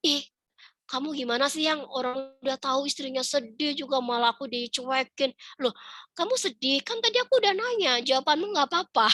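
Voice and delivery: acted-out miffed complaint, pitch climbing; exasperated back-and-forth of a sulky spouse; annoyed wife. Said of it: "istrinya makin, makin bete".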